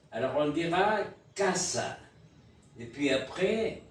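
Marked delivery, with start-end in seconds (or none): 1.3-2.0 "casa" stressed as CA-sa, falling on sa; stress on first syllable. Shown as a demonstration. Teacher demonstrates the accented syllable, "casa" stressed on CA. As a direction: put the force on the CA of "casa". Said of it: "première syllabe".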